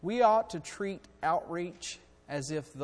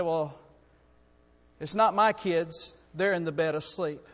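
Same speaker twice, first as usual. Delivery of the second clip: louder, slow, brushing it off; dismissive refusal; 2 semitones higher, 7 dB louder than usual. Acted. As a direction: wave them away, not my problem. Gruff man refuses to help.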